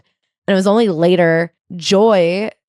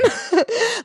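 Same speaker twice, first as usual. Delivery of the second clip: high laugh; 5 dB quieter than usual. Real, not acted. Laughing at the anecdote.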